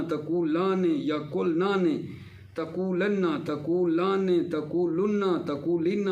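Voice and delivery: rhythmic run through verb forms; conjugation drill recitation. Shown as a demonstration. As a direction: recite the paradigm in an even, repeating pattern. (روانی سے گردان دہرانا)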